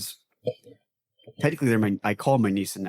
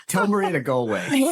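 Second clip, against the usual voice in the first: lightly nasal, higher whiny emo singer; mock emo voice; 8 semitones higher, 3 dB louder than usual. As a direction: sneer it like a pop-punk vocalist. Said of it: "the nasally voices".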